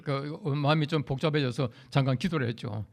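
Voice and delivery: usual speaking voice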